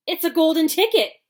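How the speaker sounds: high, loud excited scream. A narrator's reading. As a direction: scream it out in disbelief. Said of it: "screamed the shopkeeper".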